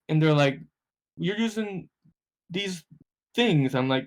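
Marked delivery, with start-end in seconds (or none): 1.2-3.7 high put-on voice, incredulous; drawn-out disbelief at the old gear; old guy voice. Old players mock the newcomer's outdated paddles, incredulous.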